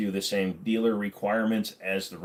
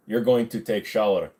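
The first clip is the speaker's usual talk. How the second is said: put-on lightly Russian-accented reading; 3 dB louder than usual. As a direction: slip into a mild Russian accent. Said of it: "I read that as Russian".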